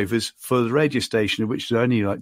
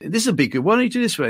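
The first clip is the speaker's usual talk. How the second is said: put-on Australian accent; 4 semitones higher than usual. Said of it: "in his Australian accent".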